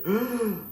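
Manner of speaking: sharp, high gasp of shock; crowd gasp. Retold or imitated. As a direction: suck in all the air at once. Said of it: "tragó aire".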